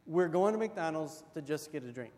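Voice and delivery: patient, calm fatherly reply; dad calmly refusing his son. Retold or imitated. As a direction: answer steadily like a patient dad. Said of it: "he just very calmly says".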